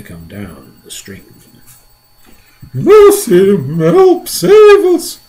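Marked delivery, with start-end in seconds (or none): 2.7-5.2 high, loud panicky cry for help; ladybird crying out. A narrator's reading. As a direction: shriek it like a tiny frightened bug. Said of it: "cried the ladybird".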